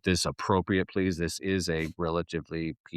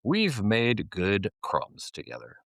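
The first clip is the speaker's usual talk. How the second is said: slow announced phrase; slower than usual. Shown as a demonstration. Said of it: "a common phrase in Argentina".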